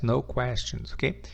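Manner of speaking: ordinary delivery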